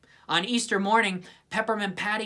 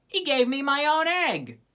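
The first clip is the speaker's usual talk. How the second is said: higher, louder disgusted complaint; indignant scoff; 8 semitones higher, 4 dB louder than usual. A narrator's reading. Lucy complaining about her own egg, high and indignant. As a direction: sneer at the trick. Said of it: "she scoffed".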